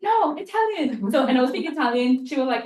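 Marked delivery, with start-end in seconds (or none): 0.0-1.1 high, loud, drawn-out mock scolding; mimicked telling-off, pitched way up; imitated yell. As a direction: yell it like an exasperated teacher, playfully exaggerated. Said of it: "she would yell at me like".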